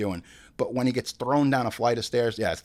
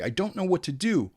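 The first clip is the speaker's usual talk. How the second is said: "I don't know what to do" said higher, acted out; mock actor take; 6 semitones higher than usual. Shown as a demonstration. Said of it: "say it again twenty-five times".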